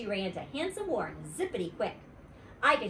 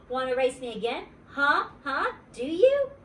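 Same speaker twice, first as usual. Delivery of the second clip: rising, louder and higher with each huh; eager pestering; 6 semitones higher, 5 dB louder than usual. A narrator's reading. Grace pestering Warren to race her again, building higher. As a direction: badger him to race again.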